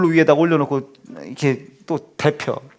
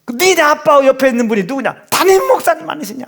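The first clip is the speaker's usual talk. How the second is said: higher, pointed questions; imitating the wife; 6 semitones higher, 3 dB louder than usual. Mother quizzing her son about the photo, higher and proud.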